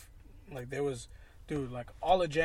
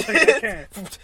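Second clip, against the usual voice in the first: slow, laughing through words; 6 semitones higher, 14 dB louder, much slower than usual. Real, not acted. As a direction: chuckle it out slowly. Laughing at own story.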